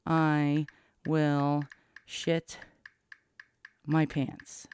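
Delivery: slow halting words while typing; typing dictation. Shown as a demonstration. Spelling out a text to his daughter, slow and halting. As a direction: drag it out word by word, pausing as you type. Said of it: "Let me type".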